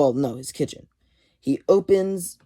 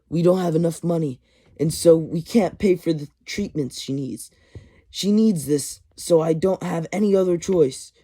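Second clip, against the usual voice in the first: acted-out desperate plea, pitched up; imitating a man begging for understanding; mock pleading; 4 semitones higher, 3 dB louder than usual. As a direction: plead your case, hammed up a little. Voicing Shocker pleading for sympathy.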